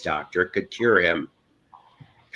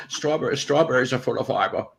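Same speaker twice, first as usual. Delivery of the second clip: Bane impression; 5 dB quieter, faster than usual. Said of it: "sound like Sean Connery".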